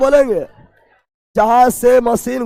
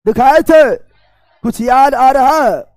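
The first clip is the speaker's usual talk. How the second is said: teacher's prodding call; 4 dB louder than usual. Real, not acted.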